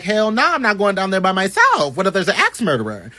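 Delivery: mock-frightened friend refusing; scared refusal. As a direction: balk like you're terrified of the basement. Jacob refusing to go downstairs.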